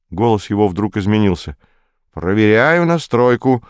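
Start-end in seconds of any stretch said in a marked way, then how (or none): 2.1-3.6 slow, higher official announcement; stern. A narrator's reading. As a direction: switch to a stern, official call-out. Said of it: "строго произнёс он". (строго, официальным тоном)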